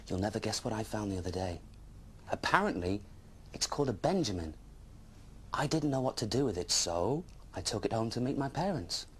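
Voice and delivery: put-on storybook read to children, lively; story narration. A narrator's reading. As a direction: tell it like a bedtime tale. Dragon narrator reads story.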